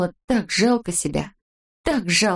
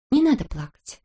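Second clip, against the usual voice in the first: higher, gentle soothing tone; tender consoling; 7 semitones higher than usual. A narrator's reading. Girl repeats her comfort to Neznaika, tender consoling. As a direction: soothe someone in tears. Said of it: "чей-то ласковый голос сказал".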